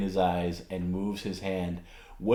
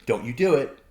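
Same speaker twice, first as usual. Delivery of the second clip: warning raised voice; 4 semitones higher, 6 dB louder than usual. Retold or imitated. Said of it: "I'm like".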